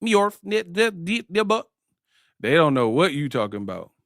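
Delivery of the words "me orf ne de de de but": higher, softer nonsense babble; imitating alien gibberish; mock alien gibberish. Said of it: "the aliens like".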